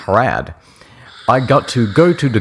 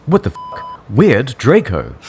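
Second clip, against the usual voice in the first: mock shocked; 5 semitones higher than usual. Acted outrage in fanfic reading.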